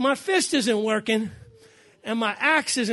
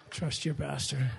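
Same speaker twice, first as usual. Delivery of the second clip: quieter and slower, chuckling through it; soft laughing aside; 6 semitones lower, 6 dB quieter, slower than usual. Real, not acted. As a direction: murmur it back to him with a laugh. Pastor teasing blindfolded son.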